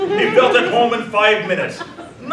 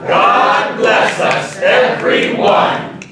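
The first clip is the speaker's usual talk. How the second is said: grand closing blessing; 7 dB louder, much slower than usual. Acted. Narrator echoes closing blessing.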